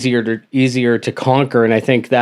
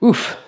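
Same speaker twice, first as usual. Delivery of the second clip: pained oof; 9 semitones higher than usual. Real, not acted.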